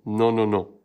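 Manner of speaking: ordinary talk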